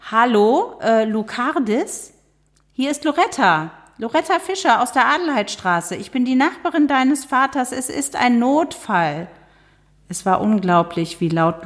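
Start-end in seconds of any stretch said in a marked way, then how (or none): 0.1-9.3 put-on high, piercing old neighbour on the phone; shrill neighbour. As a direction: play a shrill busybody caller. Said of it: "Eine schrille Stimme".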